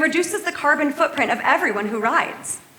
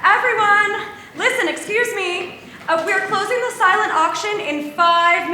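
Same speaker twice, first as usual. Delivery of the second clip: raised voice to get the room's attention; calling out; 5 semitones higher than usual. Acted. Organizer calls the party crowd to attention.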